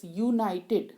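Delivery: "यूनाइटेड" starting on a clear "yoo"; "यूनाइटेड" said as "yoo-nai-ted"; opening Y sound. Shown as a demonstration. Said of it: "या letter हम sound कर रहे हैं".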